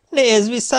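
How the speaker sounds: high, loud mocking call; taunting shout. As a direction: jeer at the fleeing devil. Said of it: "eleget kiabálta". (magas, hangos gúnyos kiáltás)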